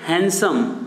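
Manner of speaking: हैंडसम as हैनसम, d silent; correct handsome. Shown as a demonstration. Teacher leading students to repeat: हैंडसम as हैनसम. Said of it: "मेरे साथ एक बार बोलो".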